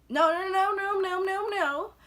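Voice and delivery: high, loud string of no's; emphatic no. Real, not acted. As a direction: cut yourself off loudly. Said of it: "correcting herself".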